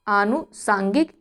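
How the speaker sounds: आनुसांगिक said slowly, opening आ long; slow correct form. Shown as a demonstration. Teacher showing students the long आ, slowly. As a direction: draw out the आ in आनुसांगिक. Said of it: "बड़ा आ होता है अनुसंगिक".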